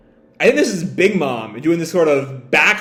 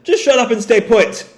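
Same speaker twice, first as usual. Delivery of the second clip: high laughing snap; 9 semitones higher than usual. Acted. Killer laughs, orders crew to stay put. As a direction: laugh then bark an order. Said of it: "Killer laughs".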